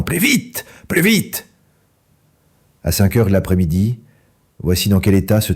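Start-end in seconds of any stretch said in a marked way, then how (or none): 0.0-1.5 high, frantic cries of faster; urging yell. A narrator's reading. Boggis hops about shouting at the drivers to go faster. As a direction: whip the diggers on. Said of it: "en hurlant".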